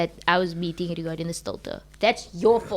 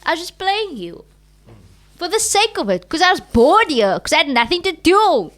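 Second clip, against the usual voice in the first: defiant reveal; 3 semitones higher, 4 dB louder than usual. Retold or imitated. Retold reveal to therapist.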